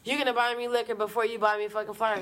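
mock-outraged challenge to the boyfriend; incredulous. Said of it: "I said".

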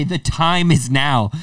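mock-heroic slow proclamation; epic quest call. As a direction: announce it like a quest hero. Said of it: "like a quest".

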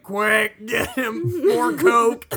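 frantic. Retold or imitated. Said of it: "everyone's like".

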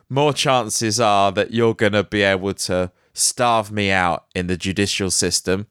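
ordinary delivery

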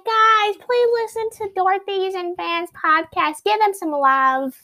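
slow, high announcement voice; announcer voice. Pretend. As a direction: read it like a school PA announcement. Mock school announcement over speakers.

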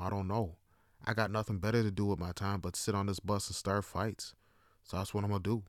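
hushed, mocking inner monologue; mock hostile starer. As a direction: lightly voice a stranger's petty thoughts, softly. Voices hostile starers' thoughts, mocking them.

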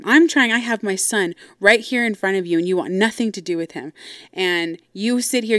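retold tirade with bursts of emphasis; going off. Sister confronting dad over his grandkids, mildly angry. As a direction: imitate a sister laying into dad. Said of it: "she's just going off".

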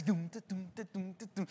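soft "tu-tum" beat; hushed rhythmic thumping; imitated music. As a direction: mimic the song's pulse quietly. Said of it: "y la música así".

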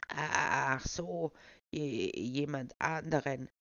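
put-on slow, stammering old man; lightly put-on old man, stammering; feeble old voice. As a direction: dodder through the words. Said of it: "den altersschwachen Tonfall beizubehalten".

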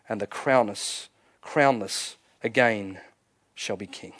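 measured verse, line by line with pauses; solemn poem recitation. Acted. Preacher praying a poem over the congregation, solemn and fading.

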